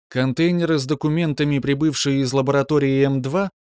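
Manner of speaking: cold, toneless female computer voice; detached metallic female voice. Acted. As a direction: speak as an indifferent machine. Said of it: "безучастный женский металлический голос".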